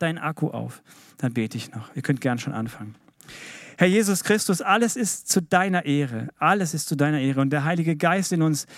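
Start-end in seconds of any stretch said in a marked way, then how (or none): 3.8-8.7 1 prayer. Acted. Opens a prayer.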